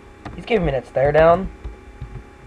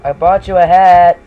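cheerful shout; 6 dB louder than usual. Acted. Role-play gifting hat.

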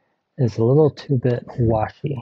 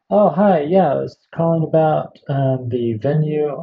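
mock upbeat caller; 3 semitones higher than usual. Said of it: "I'm like".

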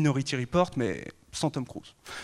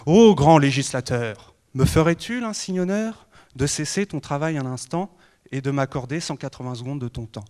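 déclamation poétique; 4 dB louder than usual. Acted. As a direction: declaim verses to the lawmaker. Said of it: "lui déclamer ces quelques vers". (déclamation solennelle de vers)

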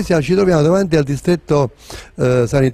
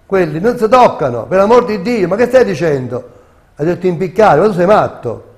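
indignant protest; 4 semitones higher, 5 dB louder than usual. Retold or imitated. Voicing horrified critics of harsh punishment.

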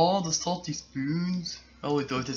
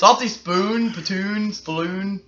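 laughing; 7 semitones higher, 9 dB louder, slower than usual. Real, not acted. Giggly name mix-up.

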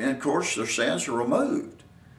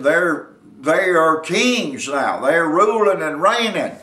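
raised, punchy sermon delivery; emphatic preaching; 4 semitones higher, 5 dB louder than usual. Real, not acted. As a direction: drive each phrase home to the congregation. Preacher presses his point.

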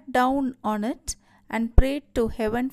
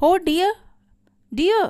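high, louder acted wail of dismay; crying out; 7 semitones higher, 4 dB louder than usual. A narrator's reading. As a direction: lament aloud, moderately dramatised. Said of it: "she cried out".

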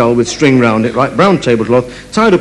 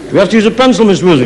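higher, lightly voiced kid question; clueless schoolchild; 5 semitones higher, faster than usual. Pupil asking the teacher once more, childlike. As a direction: put on a dim pupil's voice. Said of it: "put their hand up and say".

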